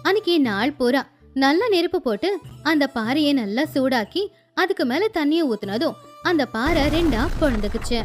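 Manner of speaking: ordinary delivery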